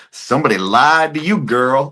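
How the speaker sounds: high, loud mock call-out; imitated sassy heckler. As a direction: call it out from the crowd, stretching the words. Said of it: "she goes".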